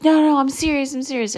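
high, urgent, pleading to be believed; insistent excited. Retold or imitated. Son insists to doubting mom he saw a whale, high and urgent. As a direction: convince them it's no joke.

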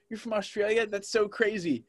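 high-pitched imitated surprise; retold amazement. Retells parents' amazed reaction.

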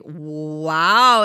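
long drawn-out, loud wow; retold amazement. Host recalling her friend's license news, retold amazement. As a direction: imitate being impressed, stretching the word.

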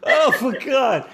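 high, slow gasp through laughter; real laughing. Real, not acted. Host cracking up at the Jaws remark, laughing. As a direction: squeal it out while cracking up. Helpless laughing at co-host's joke.

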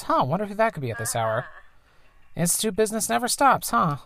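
mom's voice. Acted. Voices the mom.

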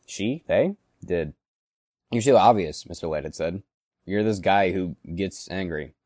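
a bitter, seething toy figure telling his tale; voiced angry plush character; angry Mister Mad monologue. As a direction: simmer with rage, flaring into curses.

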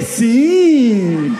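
loud, long drawn-out yes; mock eager yes. Youth eagerly accepts a stranger's lift, hammed-up enthusiasm. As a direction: gleefully overdo the acceptance, stretching it out.

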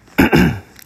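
sharp loud throat clear. Real, not acted. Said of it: "失礼。".

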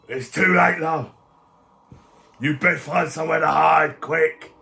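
urgent, put-on warning; resigned but pressing; grim captive. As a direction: warn a friend to hide. Captive warns friend to hide.

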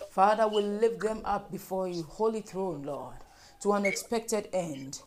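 insistent pleading prayer, each line falling away on the address; fervent prayer. Real, not acted. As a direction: lead the congregation in earnest, repetitive prayer. Leads congregational prayer.

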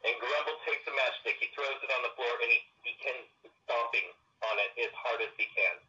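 thin voice no bass; tinny radio-like audio; walkie-talkie sound. Real, not acted. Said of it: "you sound like you're on a walkie-talkie almost".

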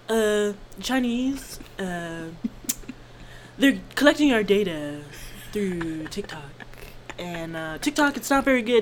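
halting presidential impression; mock a politician rambling in short, repeated phrases; lightly put-on politician voice with long hesitations; Trump. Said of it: "Trump wants to ban TikTok".

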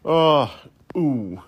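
a loud hammed-up oh, then a sudden ooh; a quick comic yelp of imitated pain; mock pained cry. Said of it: "I was imitating, uh, Harakiri or Harry Carey".

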